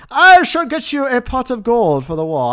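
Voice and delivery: hammed-up Scottish-or-Irish accent, pitched high; terrible Irish accent. Streamer promising super chat donor a reward, terrible Irish accent. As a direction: put on a bad, loud-starting Irish brogue. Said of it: "that was a terrible accent".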